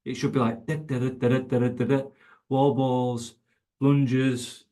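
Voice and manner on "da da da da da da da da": steady, repetitive "da" sounds; imitated erg rhythm. Shown as a demonstration. Coach showing athletes the feel of an erg, imitated rhythm. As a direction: chant out an even machine-like rhythm. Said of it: "start to feel like an erg".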